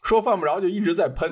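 lisping on s sounds from braces. Real, not acted. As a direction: air leaking through braces. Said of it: "戴了牙套之后，这个漏风的情况尤其严重". (戴牙套漏风)

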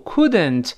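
"couldn't" with both syllables sounded out; full couldn't. Shown as a demonstration. Teacher cites the form before reducing it, "couldn't" said fully. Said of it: "但读快之后".

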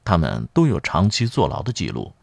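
put-on girl reading out a newspaper report; reading aloud. A narrator's reading. Volunteer reads the murder report to a patient, reading aloud. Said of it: "姑娘清清喉咙读道".

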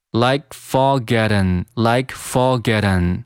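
"like forgotten", with fog at an blended; linked like fog at an. Shown as a demonstration. Teacher adding an, slow "like forgotten". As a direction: run "like forgotten" together slowly. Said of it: "然后再把an加进来".

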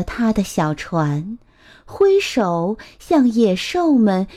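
put-on measured, expressive storytelling to a child; picture-book narration. A narrator's reading. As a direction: read a picture book aloud to little ones.

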